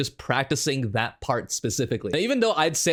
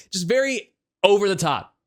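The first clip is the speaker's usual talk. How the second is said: showmanlike emphasis, higher pitched; over the top; 4 semitones higher, 4 dB louder than usual. Shown as a demonstration. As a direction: punch each word dramatically. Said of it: "sound very dramatic".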